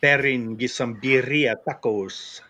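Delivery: mock Latino accent, slow, emphasis on the wrong syllables. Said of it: "That accent was all".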